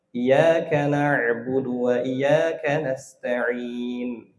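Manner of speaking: iyyaka with a single light y, very slow; lost tasydid. Shown as a demonstration. Teacher mimics the wrong reading that drops the tasydid. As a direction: read iyyaka as iyaka, no doubled y. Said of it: "Hilang tasydidnya".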